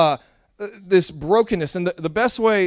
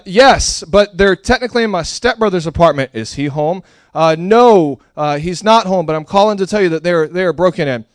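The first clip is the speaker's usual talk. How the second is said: urgent caller; 7 dB louder than usual. Retold or imitated. Acting his own 911 call.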